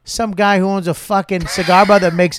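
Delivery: hammed-up comic tirade; acted indignant rant. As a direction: tear into the boss with mock outrage. Acted rant about the cigar bar owner.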